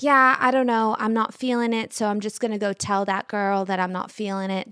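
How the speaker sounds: lightly put-on British accent; weird British accent. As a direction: do a rough, casual British accent. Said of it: "This is my weird British accent".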